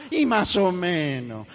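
slow, gloomy "más o menos"; mopey believer. Retold or imitated. Discouraged believer answers a newcomer, slow and glum. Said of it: "uno nuevo que viene y dice".

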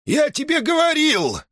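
put-on high, strained old man's yell; an enraged grandfather shouting at his son; old father shouting at his grown son. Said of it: "закричал".

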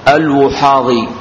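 الوحاضي as al-Wuhadi, single unstressed h; damma, light ha. Shown as a demonstration. Teacher spells out a narrator's name, light ha after damma. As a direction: keep the ha undoubled in الوحاضي. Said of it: "مع تخفيف الحاء".

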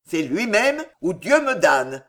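exclaimed. Acted. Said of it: "s'écria Maugiron".

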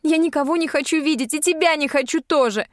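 tearful shout. A narrator's reading. Heroine sobbing at Dar.

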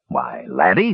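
mildly hurt dwarf; a touch of wounded innocence; injured air. A narrator's reading. Dwarf looking round at his captive, mildly injured. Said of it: "with an injured air".

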